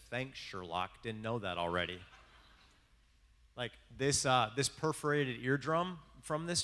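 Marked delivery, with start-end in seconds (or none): 0.1-2.0 sarcastic. Pretend. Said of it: "She could have said".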